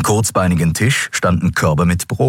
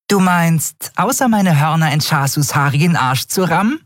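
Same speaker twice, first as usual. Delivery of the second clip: freches kleines Wesen; 11 semitones higher than usual. Acted. Nelen, kleine freche Figur.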